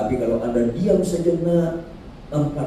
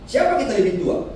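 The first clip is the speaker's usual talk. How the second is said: visiting officer; 10 semitones higher, 3 dB louder than usual. Retold or imitated. Visitor voiced asking age.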